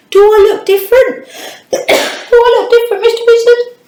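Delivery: playful question. Acted. Teacher asks puppet about haircut.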